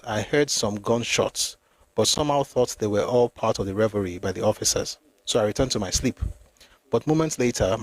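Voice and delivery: measured, formal reading from a book; read-aloud narration. Acted. Reader recounting the night of the mutiny to listeners, read-aloud narration. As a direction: read the account out evenly, phrase by phrase.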